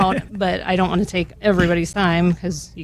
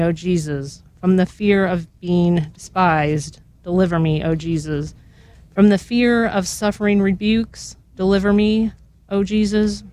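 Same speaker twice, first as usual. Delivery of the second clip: slow, measured litany prayer; prayer reading. Acted. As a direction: pray each line slowly and reverently.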